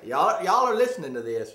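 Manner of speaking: laughing out loud, high and loud; laughing, amazed the listeners are hearing this; laughing disbelief. Real, not acted. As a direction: crack up in disbelief at your friend. Amazed at cohost's vow.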